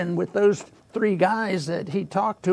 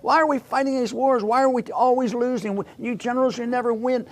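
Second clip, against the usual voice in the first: blunt Trump outburst; 5 semitones higher than usual. Retold or imitated. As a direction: bark it out like a president scolding generals.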